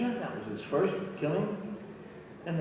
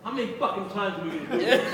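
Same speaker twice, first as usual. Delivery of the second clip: fast, higher exasperated outburst with a laugh; angry outburst; 6 semitones higher, faster than usual. Retold or imitated. Actor losing patience over endless takes, fast and angry. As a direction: rattle it off in disbelief. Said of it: "He's angry".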